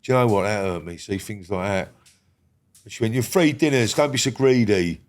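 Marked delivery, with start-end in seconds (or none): 3.1-5.0 a hint of a reproving schoolteacher; scolding teacher. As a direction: retell the telling-off in a mildly raised teacher voice. Teacher's scolding repeated in the retelling.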